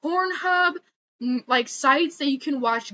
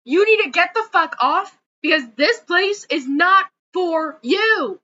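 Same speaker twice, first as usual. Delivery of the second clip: loud, furious, shouting; real anger; 3 dB louder than usual. Real, not acted. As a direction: yell it in genuine fury. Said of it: "Lord, I'm so angry".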